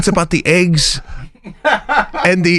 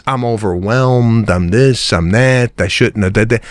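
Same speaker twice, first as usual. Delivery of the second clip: sneering imitation of the excuse, pitched down; mocking excuse; 4 semitones lower than usual. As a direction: parody the excuse, dragging it out. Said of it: "Don't give me this".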